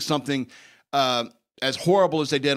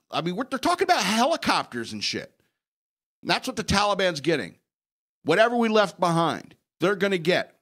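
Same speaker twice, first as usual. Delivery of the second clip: worked-up rant, pitch pushed higher; wild unhinged ranting; 4 semitones higher than usual. Real, not acted. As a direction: rant it, voice climbing. Heated rant about left equipment.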